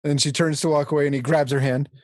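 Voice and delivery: ordinary delivery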